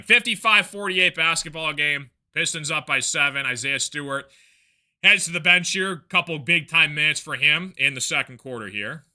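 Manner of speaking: brisk basketball call, rising on the action; live play-by-play. Real, not acted. Broadcaster calling the Pistons game for viewers, brisk play-by-play. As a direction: keep the play moving like a TV caller.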